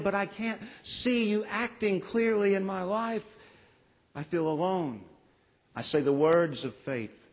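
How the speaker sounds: earnest spoken prayer, pleading; worshipper's pleading prayer to Jesus; heartfelt prayer. Acted. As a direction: pray it like someone spiritually lost. Voices a congregant's prayer.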